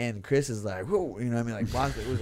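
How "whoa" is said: high-pitched, imitated startled yelp; startled reaction. Fighter reacting to a sudden fast kick, mock startled. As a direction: imitate someone caught off guard.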